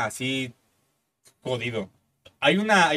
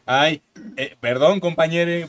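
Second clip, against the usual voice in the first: timid apology; 4 dB louder, much slower than usual. Retold or imitated. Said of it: "como el chavo dijo".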